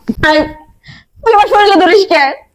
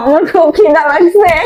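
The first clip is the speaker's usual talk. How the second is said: crying hunger; 4 semitones lower, slower than usual. Acted. Hungry madwoman begging for food.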